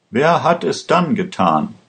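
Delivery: narrated surprise, voice lifted; surprised question. A narrator's reading. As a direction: ask it with a touch of astonishment. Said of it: "Der Staatsanwalt war überrascht".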